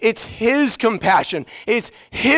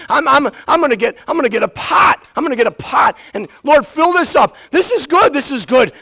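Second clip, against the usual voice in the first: growing acted excitement; 4 semitones higher, 3 dB louder than usual. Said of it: "we're like".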